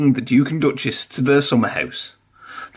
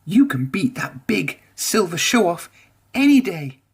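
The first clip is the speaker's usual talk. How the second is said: higher, rousing cheer; encouraging; 5 semitones higher than usual. A narrator's reading. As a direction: cheer your friend on. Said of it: "they told him".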